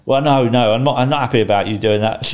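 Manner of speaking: loud imitation of an irate caller; mock rant, cutting in with objections; retold ranting. Imitating an upset caller on the phone, ranting. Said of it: "he was ranting at me and swearing at me".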